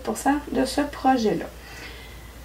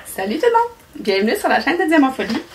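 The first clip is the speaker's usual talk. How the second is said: bright, much higher hello to viewers; excited greeting; 4 semitones higher, 3 dB louder than usual. Real, not acted. Greeting her flosstube viewers, excited and much higher. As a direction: burst in with a big cheery welcome. Upbeat opening greeting of vlog.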